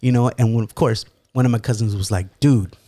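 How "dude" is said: incredulous reproach. Retold or imitated. Cousin's stunned reproach.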